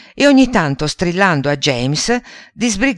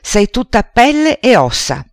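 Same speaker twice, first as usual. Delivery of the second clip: higher, mock-outraged jab; furious insult; 7 semitones higher, 3 dB louder than usual. A narrator's reading. Aunt Sponge mocking aunt Spiker's thinness, hammed-up anger. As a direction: toss the insult up high in a hammed-up temper. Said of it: "gridò fuori di sé".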